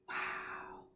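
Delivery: breathless whispered wow; gasp, then breathe out a wondering wow; amazed gasp. Shown as a demonstration. Teacher showing kids a surprised face, whispered wow. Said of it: "Big open eyes and maybe a wide mouth".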